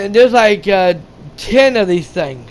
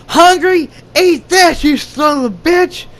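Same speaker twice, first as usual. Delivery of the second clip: much higher and louder, a mock battle cry; hammed-up action-hero yell; 8 semitones higher, 4 dB louder than usual. Hero taunting the monster as he attacks, mock yell. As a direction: yell it like a movie hero shoving a chainsaw in. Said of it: "He's like".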